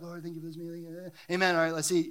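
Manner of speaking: quick, toned-down mock table prayer; imitating a passive, routine mealtime prayer; scripted grace. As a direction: rattle off a rote grace before a meal. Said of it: "like a, like a, a scripted prayer".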